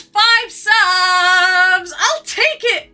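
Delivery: high, loud eager grab; snatch it up like a prize you won; an overjoyed yell; excited shout. Acted.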